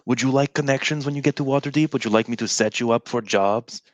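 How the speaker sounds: sarcastic mock offer; in-character sarcasm, put out. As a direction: offer help with a sarcastic edge. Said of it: "You sound like you're being sarcastic".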